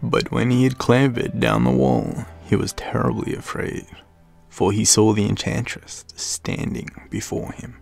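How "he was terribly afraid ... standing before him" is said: plain reading voice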